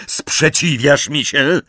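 high, drawn-out indignant question; called out. A narrator's reading. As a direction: demand an answer, voice lifted. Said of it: "zawołał Harry".

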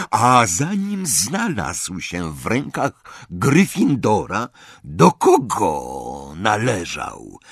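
slow, cold, offended goblin voice. Acted. Goblin, insulted by Ron, coldly refuses.

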